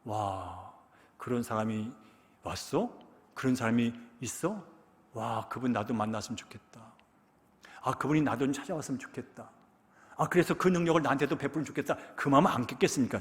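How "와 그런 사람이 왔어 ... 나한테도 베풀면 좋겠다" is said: soft, wondering inner voice; a blind beggar dreaming softly of meeting the healer; hushed longing thoughts. Retold or imitated. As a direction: muse quietly to yourself, full of hope. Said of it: "어떤 생각을 했을까요".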